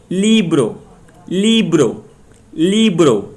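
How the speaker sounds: लिब्रो with ली high and long, ब्रो falling; stress on first syllable. Shown as a demonstration. Teacher drills the stress rule, stressing ली in लिब्रो. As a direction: raise and stretch the ली of लिब्रो. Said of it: "ली पे stress दे".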